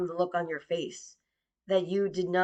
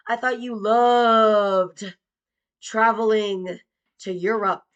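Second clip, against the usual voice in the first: mock sweetness; 5 dB louder, slower than usual. Mocking father about travel.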